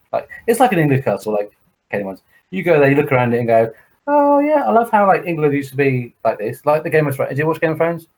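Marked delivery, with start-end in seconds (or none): 4.1-7.3 mock the starry-eyed visitor lightly; gushing tourist. Mocking a gushing castle tourist.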